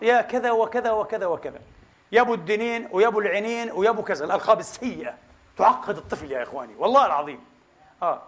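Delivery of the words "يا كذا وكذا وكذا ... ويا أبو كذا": 1 mock name-calling. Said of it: "أول ما يغلط".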